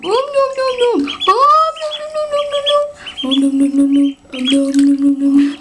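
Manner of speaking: loud urgent warning. Real, not acted. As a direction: stop the chick, fast and loud. Stopping duckling eating everything.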